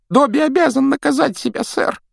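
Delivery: high squeaky elf voice, far from own; a small timid house elf. Acted. Домовик Добби говорит. (писклявый голос домового эльфа)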